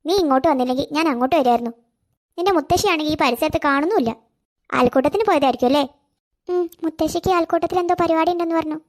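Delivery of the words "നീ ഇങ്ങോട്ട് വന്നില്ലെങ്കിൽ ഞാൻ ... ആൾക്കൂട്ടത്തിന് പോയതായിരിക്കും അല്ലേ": put-on lower, older auntie voice talking gently to a little girl; a fond elderly neighbour, coaxing; kindly old neighbour woman. Neighbour Beevi thatha speaks to child. (സ്നേഹമുള്ള പ്രായമായ അയൽക്കാരി, താഴ്ന്ന ശബ്ദത്തിൽ)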